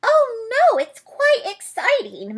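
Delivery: high, bright little mouse; small mouse voice. Acted. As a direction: Mouse cheerfully leads Bear inside, high mouse voice. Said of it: "Mouse said".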